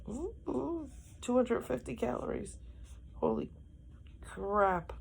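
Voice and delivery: a startled high ooh, then a hushed holy; real surprise reading the label; shocked by calories. Real, not acted. Reads calories on chocolate milk.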